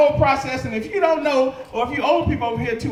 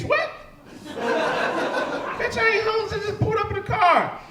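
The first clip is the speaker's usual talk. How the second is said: much higher, incredulous squeal; outraged disbelief; 8 semitones higher, slower than usual. Retold or imitated. Man mistaken for homeless at gas pump, high shocked outrage. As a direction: shoot the voice up in offended shock. Indignant reaction to woman.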